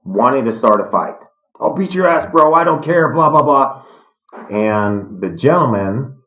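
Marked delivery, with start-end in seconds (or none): 1.6-3.8 imitating a loudmouth, higher pitched; mock tough-guy threat; hammed-up angry bro; retold yelling. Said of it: "yelling at them".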